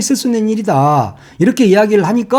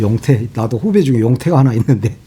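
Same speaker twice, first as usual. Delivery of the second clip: usual speaking voice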